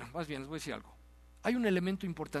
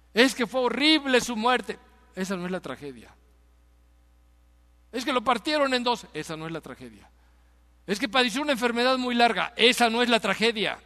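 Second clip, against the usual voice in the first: forceful preaching with raised peaks; 5 semitones higher, 7 dB louder than usual. Real, not acted. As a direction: preach it hard, dropping on some refrains. (predicación enérgica)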